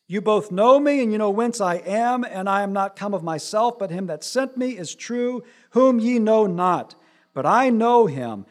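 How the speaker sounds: Jesus crying out loud in the temple. Acted. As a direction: cry it out over the crowd. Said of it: "Then cried Jesus".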